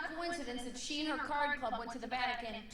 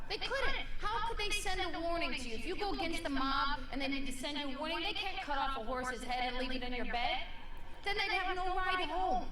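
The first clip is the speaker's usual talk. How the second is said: higher, animated comic rant; excited; 4 semitones higher than usual. Real, not acted. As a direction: build the absurd point up. Comic rant, raised pitch.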